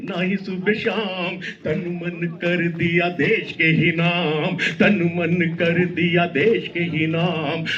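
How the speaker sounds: rhythmic, declaiming verse; poem recitation. Acted. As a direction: recite it like a stage poet.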